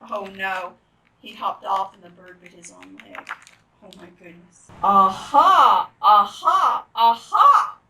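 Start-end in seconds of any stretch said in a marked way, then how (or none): 4.8-7.8 loud repeated shouted aha; loud aha chorus. Acted. Critters pounce on frog, loud shouted ahas. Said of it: "says all of these critters".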